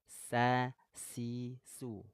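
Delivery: sa si su with a sharp hissing s; sin drill. Shown as a demonstration. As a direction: drill the s syllables. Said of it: "kalau sin itu asofir".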